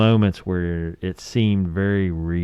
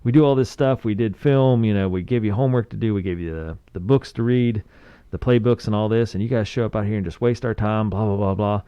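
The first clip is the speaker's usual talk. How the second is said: mock coach yelling. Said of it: "he's just screaming at him through a bullhorn".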